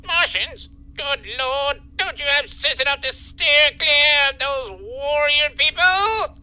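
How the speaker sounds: incredulous boss, rising at the end; theatrical exasperation; exasperated scolding. Acted. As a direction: scold an employee in mild disbelief. Boss scolds Bubba over Martians.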